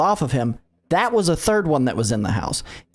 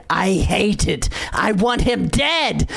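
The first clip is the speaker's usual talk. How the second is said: mock child scream; 3 semitones higher, slower than usual. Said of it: "Just, like, screaming it over and over again".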